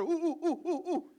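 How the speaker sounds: very high, loud eager squeal; Horseshack. Retold or imitated. Welcome Back Kotter fan imitating the eager student, high squeal. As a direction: squeal like a kid desperate to be called on. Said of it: "Remember that Horseshack?".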